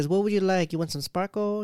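put-on high Asian-accented salon patter. Nail lady offering sparkle to a customer, Asian accent. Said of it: "she has a great Asian accent".

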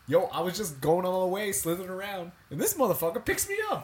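put-on a rattlesnake griping in a botched southern accent; failed southern accent. Rattlesnake griping about the man who grabbed it, in a failed southern accent. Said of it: "What kind of accent did you give the snake there".

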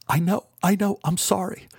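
high, tearful reassurance; crying. A narrator's reading. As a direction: comfort her through your own tears. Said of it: "I began crying as I held Beth".

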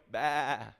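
a short spoken "Bah" like a sheep; sheep bleat. Shown as a demonstration. Preacher leading the church in a sheep bleat. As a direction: bleat it once, playfully. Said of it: "Everybody go".

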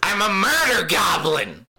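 high, impish goblin voice; joking goblin voice for Yazan; murder goblin. Pretend. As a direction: cackle it out like a little goblin. Joke voicing Yazan.

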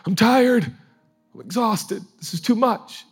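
high, loud hammed-up exasperation; mock exasperated. Preacher mocking his own weekly burnout, hammed-up exasperation. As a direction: whine it like you're done with everyone. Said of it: "I'm like".

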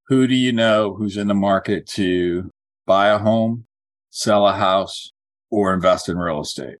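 spaced-out script line for note-taking; slow, deliberate phrase-by-phrase delivery; slow dictation. Shown as a demonstration. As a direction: dictate it slowly, pausing between options. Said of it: "I'm gonna say it slowly".

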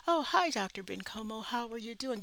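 a touch of polished professional courtesy; polite greeting. Retold or imitated. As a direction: greet him properly and politely. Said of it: "if you don't say".

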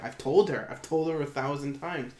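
vindicated exasperation. Retold or imitated. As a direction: act out a chef venting, punching the first words. Chef's vented frustration retold.

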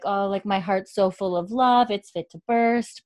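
lightly gushing retold joy; really happy. Marcelly tells Claire about her baby, really happy. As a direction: imitate a happy new mother, brimming over. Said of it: "really happy".

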